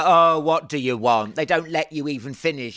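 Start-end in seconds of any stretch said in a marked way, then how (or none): 0.0-1.4 impatient Parisian. Retold or imitated. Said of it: "and they go".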